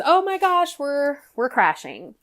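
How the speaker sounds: mock panic. Panicked thought on waking.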